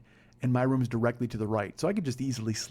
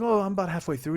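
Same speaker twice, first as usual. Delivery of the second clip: imitated English accent, higher pitch; Paul; 5 semitones higher than usual. Flatmate talking about the show, mock English accent. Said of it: "your English accent is shit".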